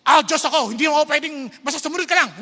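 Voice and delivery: loud, lordly command; hammed-up authoritarian God; mock bossy God. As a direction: play a domineering deity. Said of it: "He does not just say".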